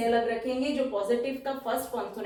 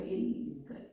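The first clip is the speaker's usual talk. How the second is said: slow dictation; 3 dB quieter, much slower than usual. Shown as a demonstration. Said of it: "दो बार sound है तो दो बार L बनेगा".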